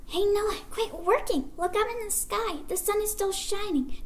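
high, put-on heckler voice; jeering townsfolk, pitched well up; taunting crowd. A narrator's reading. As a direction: call out mockingly at Noah. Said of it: "They taunted".

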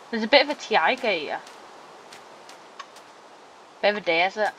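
put-on lightly done Scottish accent; a playful hint of Scottish accent; faint imitation of a Scottish accent; mock Scottish accent. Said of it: "That's how Scottish people talk like that".

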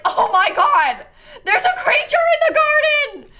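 put-on high, loud, laughing British-accented panic; husband yelling about a possum in a British accent; panicked British accent. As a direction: imitate a frightened Englishman at the window. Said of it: "saying in his British accent".

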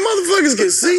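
mock shout. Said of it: "I'm like".

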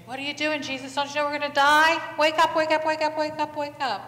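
high, urgent yelling; frantic disciples rousing a sleeper; acted panic. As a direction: shout as if the boat is sinking. Acted disciples panicking, waking Jesus.

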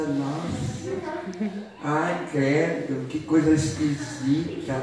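low, soft disapproving grumble; fault-finding grumbler. Acted. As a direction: pick at everyone under your breath. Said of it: "Vê tudo defeito, Zé Coração".

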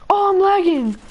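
high, loud whiny excuse; mock a sore loser whining. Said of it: "and they're like".

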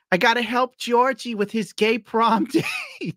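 high, drawn-out comic cry breaking into laughter; mock pleading shout. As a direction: ham it up, pitch soaring at the end. Mocks embarrassing video game dialogue.

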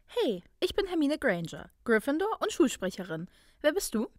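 cheerful mock introduction; grinning. A narrator's reading. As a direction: introduce yourself brightly as if strangers. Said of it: "grinste sie".

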